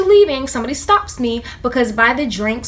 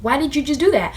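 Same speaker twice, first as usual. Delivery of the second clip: incredulous look; 3 semitones higher than usual. Retold or imitated. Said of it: "looking at them like".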